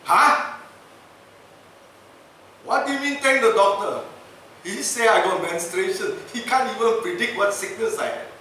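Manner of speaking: high, loud puzzled outburst; baffled protest. Retold or imitated. Governor astonished when told to thank the doctor, high and loud. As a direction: sound stunned he should thank him.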